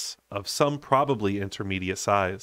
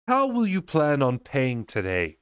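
curt; 4 semitones higher than usual. Acted. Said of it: "she asked curtly".

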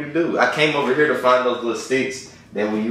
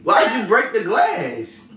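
slow, higher, louder question; worried call; 9 semitones higher, 3 dB louder, slower than usual. Real, not acted. Friend asking crying roommate through door, slow and concerned. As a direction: stretch the words, worried.

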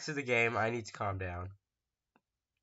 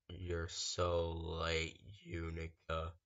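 character voice; 10 semitones lower, 12 dB quieter, much slower than usual. Acted. Game character voiced menacingly.

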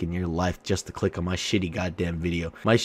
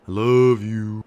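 loud love declaration; 6 dB louder, slower than usual. Acted.

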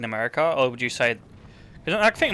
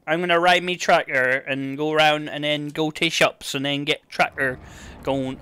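lightly put-on rural Yorkshire accent. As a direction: mimic a Yorkshire tractor driver's accent. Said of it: "it's somewhere else where they go".

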